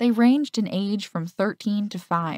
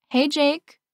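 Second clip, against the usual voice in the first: higher, louder call across the hall; 8 semitones higher, 4 dB louder than usual. A narrator's reading. Girl calling to her boyfriend at his locker, calling out. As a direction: call his name as you walk up. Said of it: "I called as I approached him".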